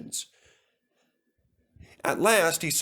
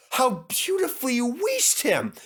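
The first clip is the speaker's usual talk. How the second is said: higher, admiring engine voice; friendly old engine; 12 semitones higher than usual. Acted. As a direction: praise the little engine warmly. Edward voiced.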